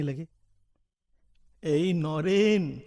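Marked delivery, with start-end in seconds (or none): 1.6-2.8 slow, drawn-out call and counsel of a guru; lightly voiced guru, unhurried and exhorting; guru in a dream. Guru urging his disciple in a dream, slow exhorting voice. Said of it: "गुरुदेव ने स्वप्न में दर्शन दिए".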